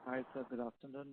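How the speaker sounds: barely audible, far from the mic; faint speech from a distance; very low voice. Real, not acted. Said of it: "Your voice is very low".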